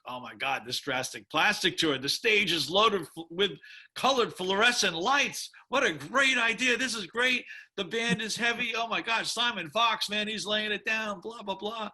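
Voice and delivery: wide-eyed fan gushing about the stage and band; retold awe. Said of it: "and I was like".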